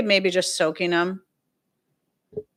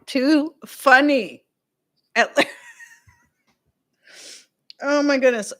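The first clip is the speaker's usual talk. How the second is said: tearful laughter; 7 semitones higher, 5 dB louder than usual. Real, not acted. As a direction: laugh through tears. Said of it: "I'm getting tears in my eyes".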